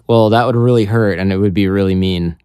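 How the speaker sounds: understated, matter-of-fact reply to a threat; mock-unbothered deadpan; deadpan calm. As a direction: answer calmly, giving away no fear. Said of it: "deadpan calm".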